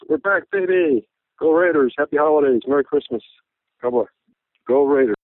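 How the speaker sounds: rally the fans to close the call; rallying cheer. Real, not acted. Fan signs off his radio call with a rallying cheer.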